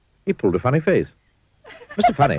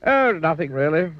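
modestly; 6 semitones higher than usual. Acted. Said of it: "replied Mister Funny modestly".

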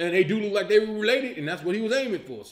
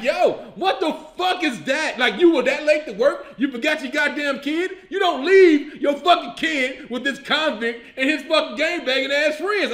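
mock scolding; 5 semitones higher, 3 dB louder than usual. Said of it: "I'm like".

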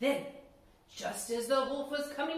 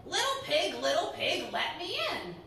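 wolf voice; 3 semitones higher than usual. Acted. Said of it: "playing the role of the Big Bad Wolf".

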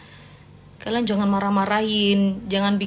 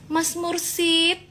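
drawn out; 6 semitones higher, much slower than usual. Real, not acted. Savouring the nickname.

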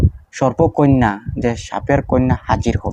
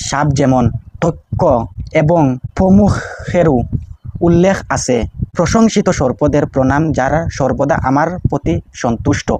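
prayer recitation. Shown as a demonstration.

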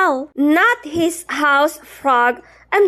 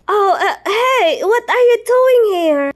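startled; 2 semitones higher than usual. Acted. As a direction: caught off guard. Startled by a surprise visit.

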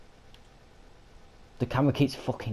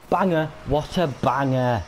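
Yorkshire accent; 5 semitones higher, 4 dB louder than usual. Real, not acted. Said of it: "That's me Yorkshire coming out".

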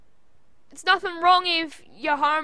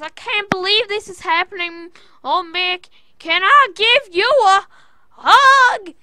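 giddy, ever louder disbelief; overjoyed gushing; 6 semitones higher, 11 dB louder than usual. Retold or imitated. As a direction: voice climbing higher and louder to a squeal on hug. Bayley's gushing quote acted out.

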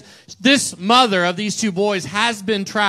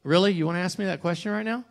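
snarky; 5 dB quieter, faster than usual. Retold or imitated. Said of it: "it's like".

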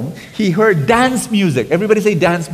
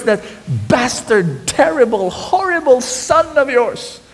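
bitter complaint; 5 semitones higher than usual. Acted. Older brother complaining to his father, bitter then fading. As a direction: spit out the grievance then trail off.

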